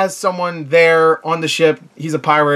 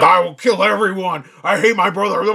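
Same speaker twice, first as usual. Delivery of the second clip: mock evil villain; 3 semitones higher than usual. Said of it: "straight up evil".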